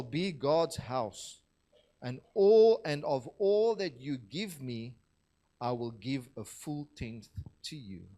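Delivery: emphatic, measured Bible reading; scripture reading. Acted. Preacher reads Jacob's waking to the congregation, scripture reading. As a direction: read it out to the room, leaning on key words.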